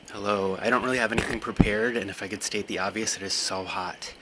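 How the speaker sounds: breathless from walking in the heat; winded, catching breath between phrases. Real, not acted. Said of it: "I'm still catching my breath from walking over here".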